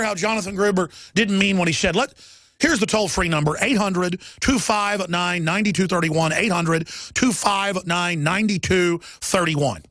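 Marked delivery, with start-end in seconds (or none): 3.6-6.3 slow number read. Shown as a demonstration. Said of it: "I'm gonna say it slow". 6.3-9.8 slow, spaced-out phone number; said slowly. Shown as a demonstration. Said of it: "I'm gonna say it slow".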